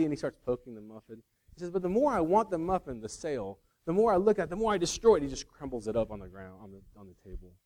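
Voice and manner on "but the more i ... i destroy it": mock frenzy, higher and louder; rough comic impression of a salesman getting carried away; Chris Farley. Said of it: "not gonna do a good Chris Farley impression".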